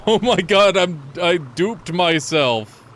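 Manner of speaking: laughing high and loud; cracking up in disbelief. Real, not acted. Laughing at duplicating himself.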